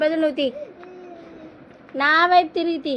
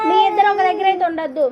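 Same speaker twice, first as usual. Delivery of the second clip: scolding, louder; 3 semitones higher, 4 dB louder than usual. Real, not acted. Mother scolding children about hostel.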